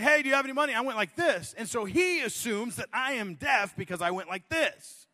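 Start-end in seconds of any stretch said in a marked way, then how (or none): 0.0-0.7 high, loud mock call for money; homeless man asking. Homeless man asks the pastor for money, a loud high call. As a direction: call out to a stranger, hopeful. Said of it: "He's like".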